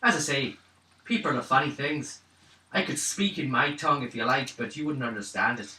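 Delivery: easy character voice with a light lilt; lightly voiced odd local. Character tells party about their own tongue, lightly voiced. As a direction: speak as the strange-tongued local. Game master stays in character.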